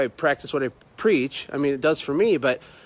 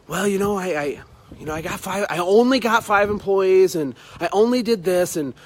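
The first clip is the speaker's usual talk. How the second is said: mock apologetic, hesitant then insistent; imitated sheepish downplaying; 3 semitones higher than usual. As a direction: stumble in, then lean on each "only". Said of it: "have to say it like that".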